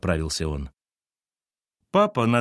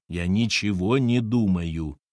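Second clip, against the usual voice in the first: mild anger; slower than usual. Acted. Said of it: "перебил капитан сердито".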